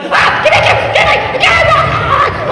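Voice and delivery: very high, loud hammed-up yelling; shouted chase. Dad chasing his escaped son round the house, mock yelling. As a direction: holler comically after a runaway, voice shooting way up.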